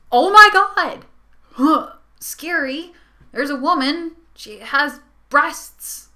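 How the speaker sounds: high, loud gasping gamer freaking out, then a slow drawn-out line; mock shocked gamer. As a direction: ham up a gamer panicking over a girl. Mocking gamers shocked by girls.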